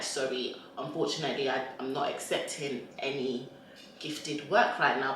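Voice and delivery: polite decline. Retold or imitated. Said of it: "and I'm like".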